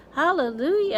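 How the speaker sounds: high, loud jubilant cry; aunt rejoicing at the peach, loud and high; shouted hallelujah. A narrator's reading. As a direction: whoop with glee. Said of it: "Aunt Spiker shouted".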